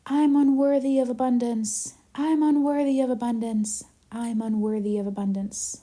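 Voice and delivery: repeated echo, fading and dropping in pitch; canyon echo. Acted. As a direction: mirror the call back, each repeat fainter. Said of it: "it's gonna mirror back to you".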